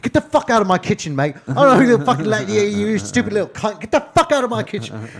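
high, loud furious screaming; Gordon Ramsay rant. Retold or imitated. YouTube chef screaming at his brother, Ramsay-style fury. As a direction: scream him out like a tyrant chef. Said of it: "trying to be like Gordon Ramsay".

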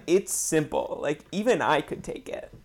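a touch of mock sass; imitated sass. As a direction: mimic the show's stock sassy tone. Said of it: "they just nailed it there".

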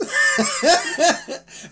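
bright burst of giggling; giggle. Real, not acted. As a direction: laugh at your own plan. Laughing at own plan.

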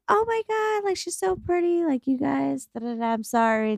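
high, gushing mock apology; mock flustered gush. Telling friends how she gushed at the guy, high and flustered. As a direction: squeal it out, embarrassed and apologetic. Her own flustered reply retold.

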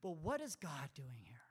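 hushed, breathy question; whispered question. Acted. Pastor asking the congregation in a whisper. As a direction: lean in and whisper it.

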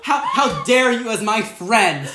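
hammed-up betrayed friend, loud and high; Rosie O'Donnell. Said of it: "Rosie O'Donnell".

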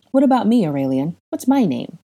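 eager, bright question pitched high; hopeful. A narrator's reading. Harry hoping the boy knows his name, hopeful and high. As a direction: ask hopefully, fishing for your own name. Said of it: "Harry asked hopefully".

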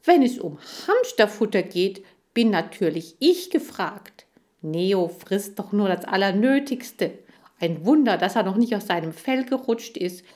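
a touch of scornful self-importance; indignant bragging. Acted. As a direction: argue your claim over a rival. Chan argues he should be chosen.

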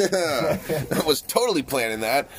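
slow laughing boast. Real, not acted. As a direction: laugh through it, proud.

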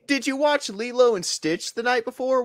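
high disbelieving question; incredulous. Real, not acted. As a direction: ask in amused disbelief.

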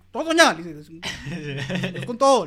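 all-out shout to go full speed; shouted urging. Acted. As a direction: yell it to push the driver on. Character urging full throttle.

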